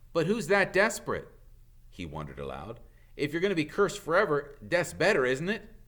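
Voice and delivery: put-on loud, eager boyish wondering; young boy voice. A narrator's reading. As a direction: blurt it out, puzzled. Harry wonders aloud.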